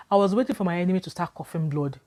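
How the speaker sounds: said through a laugh; amused at her own naivety; chuckling retelling; laughing at herself. Real, not acted.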